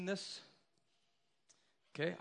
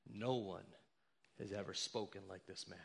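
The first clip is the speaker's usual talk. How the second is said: officers' answer; 7 semitones lower, 7 dB quieter than usual. Acted. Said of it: "And they answered".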